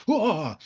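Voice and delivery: high-pitched mock curse scream. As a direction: imitate a scream at restrained volume. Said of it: "he's screaming at them".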